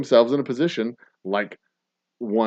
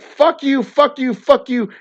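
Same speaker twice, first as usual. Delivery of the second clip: higher, louder mock yelled curses; retold yelling; 11 semitones higher, 6 dB louder, slower than usual. Woman cutting in yells at the driver, mock shout. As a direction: hurl it back at him, three times over. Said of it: "she was like".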